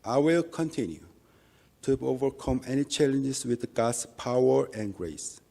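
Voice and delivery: ordinary delivery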